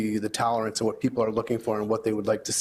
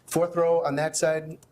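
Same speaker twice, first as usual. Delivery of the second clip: slower and higher, spelling out the row; clarifying repeat; 5 semitones higher, slower than usual. Real, not acted. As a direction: repeat it slowly so the back of the room catches it.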